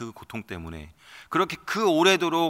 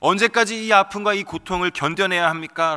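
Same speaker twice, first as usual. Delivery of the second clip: rising from pleading to higher, louder cry; building outcry; 4 semitones higher, 8 dB louder than usual. Acted. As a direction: climb into a desperate wail. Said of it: "이 부르짖음, 이 절규는".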